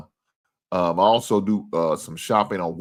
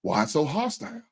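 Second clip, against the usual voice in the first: high, loud, sing-song imitation; mocking viewer voice; 4 dB louder than usual. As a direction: mimic him as a smug innocent. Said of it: "He said".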